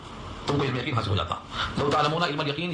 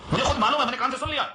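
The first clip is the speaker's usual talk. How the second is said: mock eager claim, pitched higher; hammed-up insistence that he saw it himself; imitating zealous insistence; 5 semitones higher, faster than usual. Preacher imitating a man who swears he saw it. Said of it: "تو بڑے جوش میں کہتا ہے".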